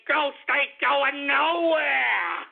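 slow, laughing yell of defiance; laughing shout. Real, not acted. Host to haters, defiant laughing shout.

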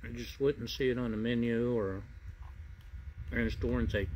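speaking with food in mouth; words between bites of food; talking while chewing. Real, not acted. Seen 0: Bite taken at -3; jaw and lips work around food while speaking.

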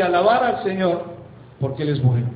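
slow, deliberate "Alabar al Señor"; read slowly. Shown as a demonstration. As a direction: draw out "Alabar al Señor" word by word. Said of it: "te lo voy a leer despacito".

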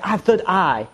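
imitated Asian fortune-teller accent. Caricaturist explaining his gift, Asian accent. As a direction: claim it in a mock Asian accent. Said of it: "one of those Asian people".

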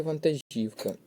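вантажівка stressed on the syllable жів; correct stress. Shown as a demonstration. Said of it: "правильний варіант буде".

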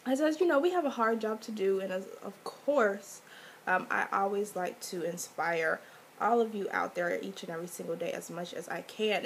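hoarse from a cold; talking through a sore throat; sick voice. Real, not acted. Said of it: "please excuse my voice, I'm sick".

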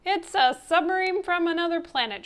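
high, loud alarmed cry; shriek. A narrator's reading. Coach sees Alphonse in the pool, shrieking. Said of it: "shrieked the coach".

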